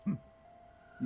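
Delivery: ordinary talk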